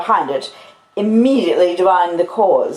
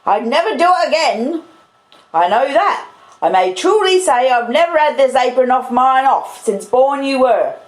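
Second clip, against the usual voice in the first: high, aggrieved sister's rant; indignant, martyred scolding; scolding tirade; 7 semitones higher, 3 dB louder than usual. Acted. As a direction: complain bitterly with raised pitch. Sister's acted scolding tirade continues.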